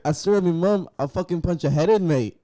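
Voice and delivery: mock English accent. Mimicking an angry English player, mock English accent. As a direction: bellow it like a furious English footballer. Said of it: "Is that your English accent right there?".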